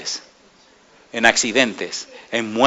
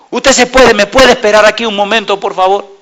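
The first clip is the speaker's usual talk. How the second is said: put-on higher, pleading voice of a crying boy; imitating a weeping student; 6 semitones higher, 4 dB louder than usual. Preacher retells the weeping student's words, higher and pleading. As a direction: replay his tearful confession, pitched up. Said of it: "llorando, me dice".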